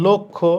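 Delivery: "লক্ষ্য" as lok-kho; O-like vowel. Shown as a demonstration. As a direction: round the first vowel of "লক্ষ্য" to O. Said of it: "ও এর মতো হবে".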